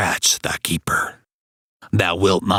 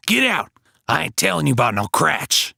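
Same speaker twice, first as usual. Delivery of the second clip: angry yell; 6 semitones higher, faster than usual. Acted. Hake runs off the anthropologist.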